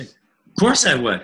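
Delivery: imitated client retort, loud and slow; emphatic retort. Client answers coach's slap question, emphatic retort.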